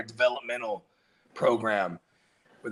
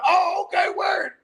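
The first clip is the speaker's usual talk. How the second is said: mock South African accent, pitched way up and shouted; hammed-up South African accent; 12 semitones higher than usual. Talking to Siri in a put-on South African accent. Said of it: "I'd talk in the accent".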